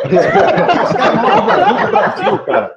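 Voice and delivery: slow, high showing-off voice; a hint of a put-on character voice; lightly put-on voice. Friend asks him to do the voice at lunch, slow and high. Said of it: "faz aquela voz aí pra ele".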